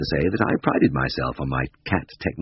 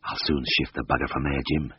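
low, softened conspiratorial aside; whisper; 3 semitones lower, 5 dB quieter than usual. A narrator's reading. Tristan confides in his colleague while taking aim, half-whispered. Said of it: "he whispered".

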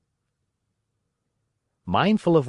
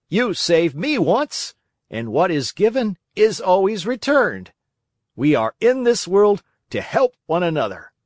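earnest grateful dog; 7 semitones higher, 4 dB louder than usual. A narrator's reading. Dog repaying the marionette who saved him, earnest. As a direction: declare it earnestly, leaning on key words.

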